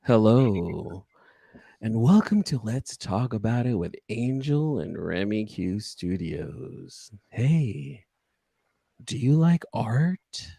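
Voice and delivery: slow sultry promo read. Shown as a demonstration. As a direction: draw it out like a sexy commercial. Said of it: "the same way".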